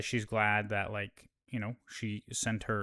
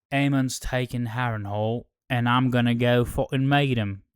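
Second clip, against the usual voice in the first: bad, more casual character accent; Criston Cole; 4 dB louder than usual. Recapper retrying a knight's line, more casual bad accent. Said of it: "I'm doing a bad accent".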